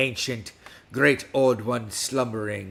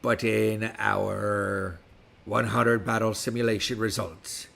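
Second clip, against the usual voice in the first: put-on West Country pirate accent throughout. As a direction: talk like a pirate all episode. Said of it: "with me speaking like a pirate".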